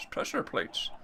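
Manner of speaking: whistled S sounds in "Pressure plates"; hushed, whistly "Pressure plates", playfully exaggerating the S; Herbert the Pervert. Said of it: "my Herbert the Pervert impersonation".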